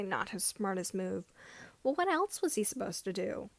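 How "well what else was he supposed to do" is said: ordinary talk, nothing marked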